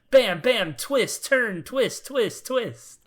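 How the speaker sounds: high-pitched, punchy list of hits; mock plot-twist barrage. Shown as a demonstration. Host mimicking relentless game twists, high-pitched barrage. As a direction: pop each word high, one after another.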